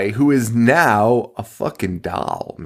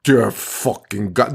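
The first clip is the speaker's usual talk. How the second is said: slow mock-stunned exclamation; a touch of hammed-up horror; mock awe; 3 semitones lower, slower than usual. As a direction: draw it out as if dumbfounded. Mocking cop amazed at a breeze.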